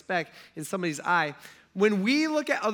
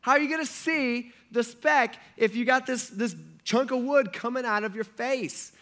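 incredulous Jesus; 6 semitones higher, 3 dB louder than usual. Retold or imitated. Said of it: "He's like".

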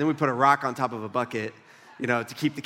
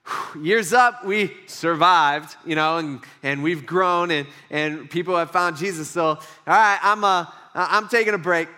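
louder, self-satisfied mock relief; smug relieved church; 5 dB louder, slower than usual. Pastor mocking a church that wants a break, loud relief. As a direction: play the church patting itself on the back. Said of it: "we could just go".

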